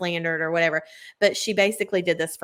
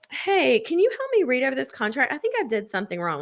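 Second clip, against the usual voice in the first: higher, coy flirt asking for help; a sly flirt bending over the desk, higher and sweet; flirty; 6 semitones higher than usual. Retold or imitated. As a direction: play the helpless flirt.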